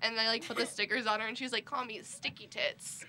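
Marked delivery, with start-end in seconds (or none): 1.6-3.0 a faint breathy whisper, slowed right down; weak whisper. Retold or imitated. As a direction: whisper it weakly like a groggy patient. Friend quoted weakly in hospital.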